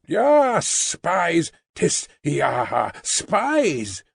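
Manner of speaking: the rabble jeering at the mourner, mock calls; jeering mob. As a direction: taunt the mourner like a crowd.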